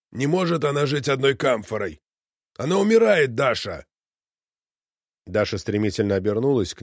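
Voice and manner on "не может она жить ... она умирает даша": a theatrical cry of despair at his daughter; irritated theatrical exclaim. Acted. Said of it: "раздражённый и тем же точно театральным голосом воскликнул".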